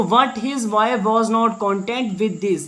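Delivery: drags each word out, very slow; very slow reading aloud. Shown as a demonstration. Teacher reading the line to students, very slowly. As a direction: dictate it word by word.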